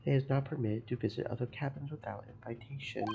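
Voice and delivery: a hint of a Russian accent, gruff and proud; broken-English Russian sailor. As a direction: play the touchy ship's guard, lightly accented. Guard repeats the rule.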